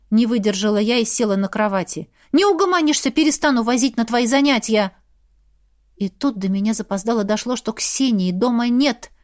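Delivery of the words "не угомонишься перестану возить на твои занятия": high, sharp scolding. Acted. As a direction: tell the kid off. Scolding the presumed prankster.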